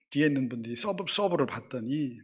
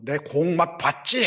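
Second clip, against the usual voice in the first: gloating taunt; 3 semitones higher, 6 dB louder, slower than usual. Retold or imitated. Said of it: "해가면서 막 이러는 거예요".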